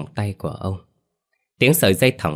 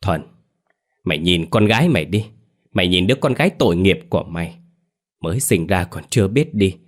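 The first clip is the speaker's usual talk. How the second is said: angry scolding. Acted. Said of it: "bằng một ánh mắt tức giận rồi gằn lên".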